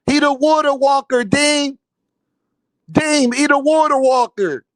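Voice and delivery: mocking impression of a soft-voiced man; Frequent's soft voice. Mocking Frequent to his face over hating Devin, soft-voice impression. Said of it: "Frequent, you talk like this. You be like".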